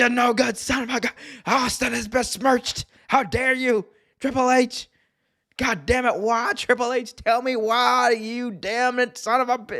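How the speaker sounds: very high-pitched, outraged commentator-style rant. Imitating a wrestling commentator's hatred for Triple H: Jim Ross impression. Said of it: "That was a really good impression".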